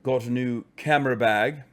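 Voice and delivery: mock-posh English accent. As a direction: play the posh English gent. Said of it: "I can't do the accent anymore".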